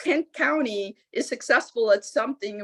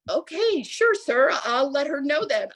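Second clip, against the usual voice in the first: meekly compliant; 5 semitones higher than usual. Retold or imitated. Meekly placating the angry caller.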